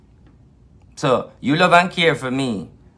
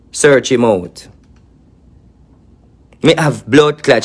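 furious shouting; 4 dB louder than usual. Real, not acted. Angry rant exposing a rival.

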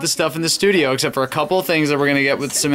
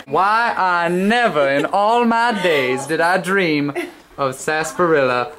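mock-dramatic gush; 2 semitones higher, slower than usual. Mock-dramatic gush of pride to a friend.

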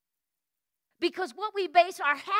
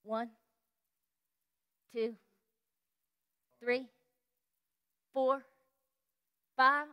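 quiet counting; 7 semitones lower, 5 dB quieter, slower than usual. Retold or imitated. Silently counting people coming forward.

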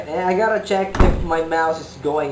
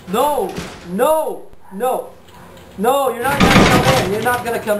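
loud scared yell at the door; panicked shout; 5 semitones higher, 4 dB louder than usual. Real, not acted.

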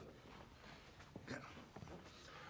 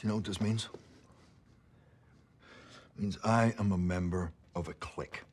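tough cop. Acted. Cop menacing a detained suspect.

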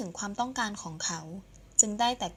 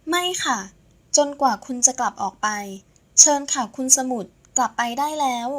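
raised, firm refusal; high and louder, showing him the door; 3 semitones higher, 5 dB louder than usual. Acted. Saenrak ordering her boss out of her condo, firmly. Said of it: "ต้องเสียงแข็ง".

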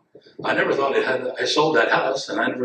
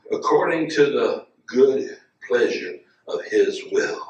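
slow scripture reading; slower than usual. Acted. Preacher reads scripture slowly.

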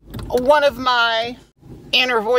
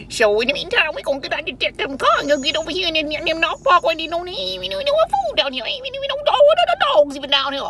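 put-on high, rambling old Southern man; old Southern Black man voice; 10 semitones higher than usual. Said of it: "my old black man from the South voice".

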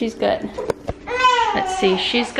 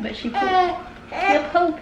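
laughing; 7 semitones higher than usual. Real, not acted. Laughing about the diaper.

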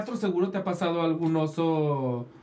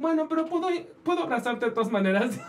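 disappointed fan; 6 semitones higher than usual. Retold or imitated. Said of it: "Y luego me dijo".

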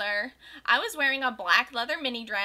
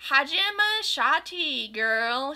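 higher, slow, sing-song greeting; happy; 3 semitones higher, 5 dB louder, much slower than usual. Acted. Bloody Mary greeting her friend, happy. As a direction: greet her with mock cheer. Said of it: "she said happily".

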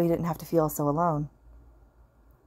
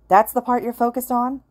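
snorting scoff; 7 semitones higher, 5 dB louder than usual. Acted. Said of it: "Oboro snorts".

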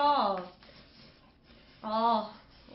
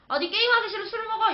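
higher, mock-annoyed order; irritated snap; 10 semitones higher, 5 dB louder, faster than usual. Retelling the friend who angrily forced drinks. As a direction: bark the order like a pushy friend. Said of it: "남구가 승질을 내는 거예요".

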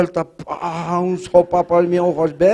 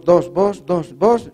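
stutterer; 2 semitones higher, much slower than usual. Retold or imitated. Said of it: "el tarta".

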